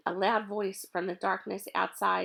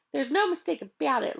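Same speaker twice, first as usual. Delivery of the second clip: raised voice thrown back; calling back; 6 semitones higher, 5 dB louder than usual. Acted. Louis calls back to Mac over his shoulder, raised. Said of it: "Louis called back over his shoulder".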